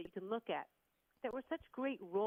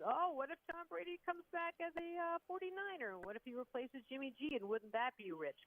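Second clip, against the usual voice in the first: much higher, dreamy fan voice; mock hopeful fan; 6 semitones higher than usual. Fans imagining Brady as a forty-niner, mock hopeful. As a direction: play a fan daydreaming about Brady returning. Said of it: "doctoring up their jerseys and saying".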